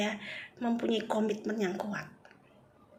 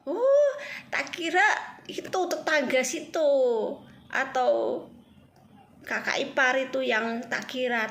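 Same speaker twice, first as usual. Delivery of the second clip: startled mother, a little louder; mother's surprise; 3 semitones higher, 4 dB louder than usual. Retold or imitated. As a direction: sound like the mother realizing who did it. Mother reacts to the confession.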